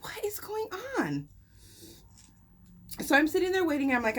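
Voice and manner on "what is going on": puzzled whisper to herself; whispered what is going on. Retold or imitated. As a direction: breathe the question, no voice. Confused, waiting alone.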